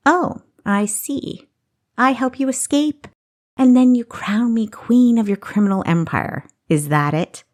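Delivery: mock him with a sneer. Kessa mocking Augustus.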